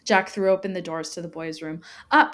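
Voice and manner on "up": shouted. Acted. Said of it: "he shouted".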